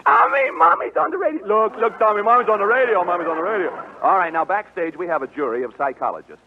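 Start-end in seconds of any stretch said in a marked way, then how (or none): 0.0-3.7 host to Tommy listening at home, high excited call. Pretend. Host calls out to the boy at home, playful calling. Calls to son over radio.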